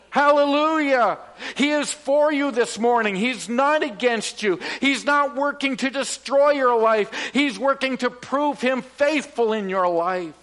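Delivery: preacher lifting the congregation; preaching at full force. Acted. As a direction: preach it out with fervour.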